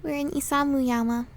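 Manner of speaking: lightly voiced anxious girl; calm him down, a little shaky; reassuring character voice.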